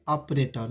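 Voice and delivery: ऑपरेटर starting on open "aw"; wrong pronunciation. Retold or imitated. Teacher repeats the mistaken ऑपरेटर, open "aw". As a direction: say ऑपरेटर as "awp-rator". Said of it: "जो कि बिल्कुल गलत है".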